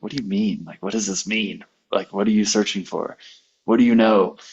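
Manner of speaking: retold mild irritation, pressing questions; mildly annoyed. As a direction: imitate getting a little annoyed, firmer at the end. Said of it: "kind of getting annoyed".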